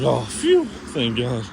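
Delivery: mock relief after a close call; relieved. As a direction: act out a big phew, then settle. Retelling relief after boss's okay.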